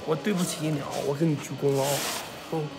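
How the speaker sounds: small, humbled murmur; sheepish apology. Real, not acted. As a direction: apologise meekly, almost under the breath. Apologising for blocking a fan.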